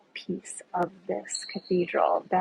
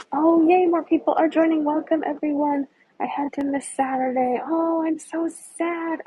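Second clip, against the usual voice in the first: bright, much higher, louder welcome; excited greeting; 8 semitones higher, 6 dB louder than usual. Real, not acted. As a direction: greet the newcomers with real excitement. New viewers joining the live tour.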